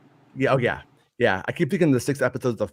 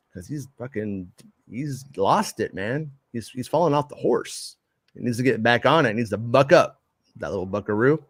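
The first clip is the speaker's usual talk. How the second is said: cowboy voice. Real, not acted. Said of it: "I sound like a cowboy".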